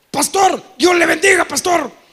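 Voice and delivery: loud, sheepish mock greeting. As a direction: greet him loud, caught out. Church member greeting.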